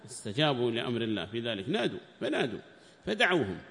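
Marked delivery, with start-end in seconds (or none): 1.7-3.6 raised, higher recitation voice for the quoted book; formal text reading. Acted. Sheikh reading the tafsir book aloud to students, raised formal reading voice. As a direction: declaim the commentary text like reading to a class.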